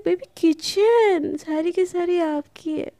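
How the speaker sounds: coy, mischievous sweet-talk; naughty teasing. Acted. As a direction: stretch it out playfully to needle them. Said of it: "एकदम naughty अंदाज में".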